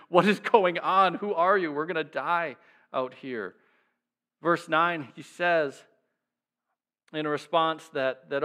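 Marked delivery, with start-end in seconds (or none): 0.1-3.6 panicked sailors yelling. Retold or imitated. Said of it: "just yelling out questions to him".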